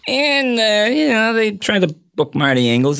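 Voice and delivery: low, deep talk-show host voice; deep Leno impression; deep Jay Leno voice. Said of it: "the deep Jay Leno voice".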